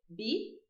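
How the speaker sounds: "bi" with a clear B sound, as Argentines say it. Shown as a demonstration. Teacher showing how Argentines say V as B. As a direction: voice the V of "vila" as a soft B, "bi". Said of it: "o V pronuncia como B".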